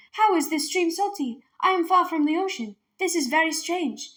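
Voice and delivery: wondering aloud. Acted. Girl by the salty stream, puzzled wondering. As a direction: puzzle it out to herself. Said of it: "Minley began to wonder".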